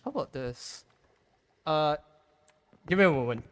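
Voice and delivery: muffled voice through a wall; talking from behind a block, muffled. Real, not acted. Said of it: "Gotta love the muffled, muffled voice when behind a block".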